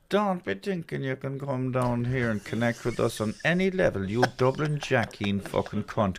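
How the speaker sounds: Kerry crowd voice mocking a Dublin outsider; hostile Kerry local. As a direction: sneer it like an unwelcoming local daring the Dublin comic. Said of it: "Kerry Head's just like".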